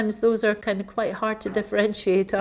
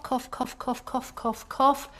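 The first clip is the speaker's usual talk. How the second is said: imitated cough; 3 semitones higher, 4 dB quieter, slower than usual. Shown as a demonstration. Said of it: "And if they're cough".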